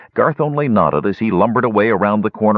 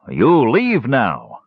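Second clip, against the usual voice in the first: slow, fearful warning, a little raised; frightened order; 5 semitones higher, much slower than usual. Acted. Frightened dwarf warns intruder to leave, slow fearful order. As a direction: push the intruder away out of fear.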